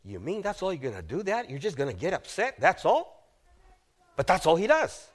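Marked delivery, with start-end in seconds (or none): 0.0-3.3 quick, incredulous questioning, rising at the end; shocked disbelief. Acted. Son to his father who only gets upset, incredulous. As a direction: question him in understated disbelief. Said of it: "Absalom is shocked".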